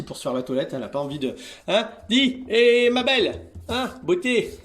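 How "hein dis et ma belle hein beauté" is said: high coo to a pretty cat; high pet talk. Real, not acted. Admiring cat Annabella, high tender coo.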